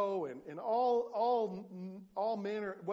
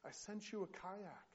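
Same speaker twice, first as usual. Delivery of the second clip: softer, measured answer from God; reply patiently, spacing out each item; lightly voiced Lord; 2 semitones higher, 9 dB quieter than usual. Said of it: "the Lord says to him".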